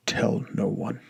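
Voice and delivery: breathy secret whisper, barely voiced. A narrator's reading. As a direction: hush it like a secret only two share. Grandfather's secret warning.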